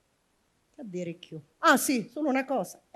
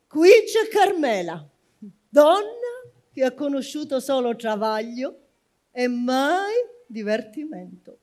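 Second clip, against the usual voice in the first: declaiming; 4 semitones higher, 10 dB louder than usual. Acted. Imagined epitaph read aloud.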